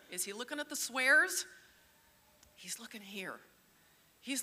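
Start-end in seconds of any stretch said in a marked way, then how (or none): 2.6-3.4 soft unvoiced whisper. Real, not acted. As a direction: whisper it like a secret. Whispered point.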